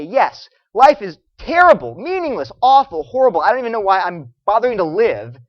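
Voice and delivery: a hammed-up bleak confession; mock despair. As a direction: declare the misery with loud, heavy emphasis. Voices old atheists' bleak confession.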